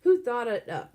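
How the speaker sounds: loud angry question; shouting. A narrator's reading. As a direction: shout it back hard. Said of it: "Alan shouted".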